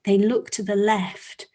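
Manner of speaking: measured, suspenseful storytelling; story narration. Acted. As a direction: narrate to children, pausing between phrases.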